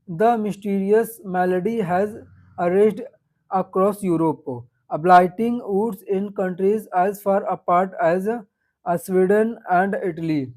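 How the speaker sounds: slow, halting, emphatic textbook reading; reading passage aloud. Real, not acted. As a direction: read it out word by word to a class. Teacher reads exam passage aloud. (धीमे, रुक-रुककर गद्यांश पढ़ना)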